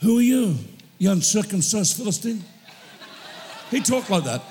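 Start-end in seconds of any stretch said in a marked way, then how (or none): 0.0-2.4 David's challenge. Retold or imitated. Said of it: "David says".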